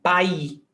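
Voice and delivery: país cut short to "pa-í", final s left off; word without final S. Shown as a demonstration. Teacher showing a word that doesn't exist, país without its s. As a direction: say país as "pa-í", ending on the stressed vowel. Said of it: "there is no word as".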